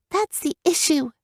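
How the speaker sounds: put-on high, begging girl's voice; pleading young girl. Girl character voice.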